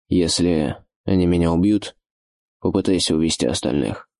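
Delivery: голос Оша, ниже обычного; говори ниже, спокойно, как орк-вожак. A narrator's reading. Ош говорит Зоре. (Ош спокойно отвечает Зоре, низким голосом)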